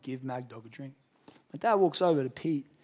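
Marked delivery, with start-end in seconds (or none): 0.0-0.9 very hushed, small, soft half-whisper. Retelling a quiet inner voice telling him to share: quiet half-whispering voice. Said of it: "quiet voice came along".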